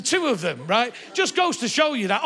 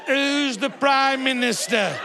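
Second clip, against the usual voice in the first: slow quiz to a forgetful elder; much slower than usual. Retold or imitated. Asking an old person slowly who the Prime Minister is. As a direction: ask it slowly like testing grandma.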